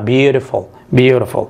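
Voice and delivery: repeated model word; Beautiful repeated as a pronunciation model. Shown as a demonstration. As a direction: say Beautiful twice, clearly. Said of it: "مقطع وفول مقطع".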